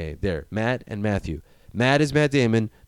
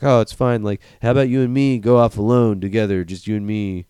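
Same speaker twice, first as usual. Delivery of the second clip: louder, sly coaxing voice; 6 dB louder than usual. Retold or imitated. Matt Damon luring McConaughey, sly and coaxing. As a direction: lure him along sweetly. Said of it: "string him along, like".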